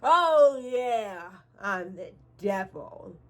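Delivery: laughing it off. Retold or imitated. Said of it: "I literally starts laughing".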